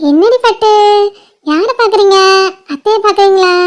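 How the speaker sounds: playful sing-song questions to an infant; doting auntie prattle; cooing baby talk. Acted. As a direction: coax the baby's attention tenderly.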